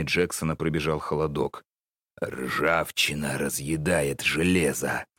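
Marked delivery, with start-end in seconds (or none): 2.2-5.1 ominous. Acted. Old man continues ominously.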